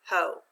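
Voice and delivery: Ho read alone, long o, unaccented; syllable without accent. Shown as a demonstration. Teacher sounding out hotel's first syllable, unaccented Ho. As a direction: say Ho as one separate open syllable. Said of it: "read it without the accent".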